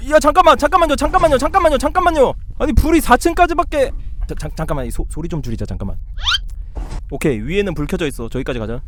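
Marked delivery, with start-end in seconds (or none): 0.1-3.9 high, repetitive pleas in a real panic; panicked pleading. Real, not acted. Player pleading with the game to wait, panicked. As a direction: beg for a moment, voice pitched way up.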